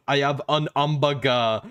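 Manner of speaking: put-on light French accent with dropped h in hamburger; mock French I have an hamburger. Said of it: "him at the airport security going".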